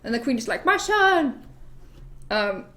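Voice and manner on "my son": high-pitched melodramatic wail; hammed-up high lament; acted protest. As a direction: cry out as a dramatic mother. Queen protests over her child.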